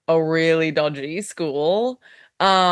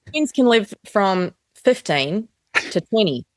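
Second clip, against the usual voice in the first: a light New Zealand accent. Shown as a demonstration. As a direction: say it like a Kiwi fact. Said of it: "in a New Zealand accent talk about penguins".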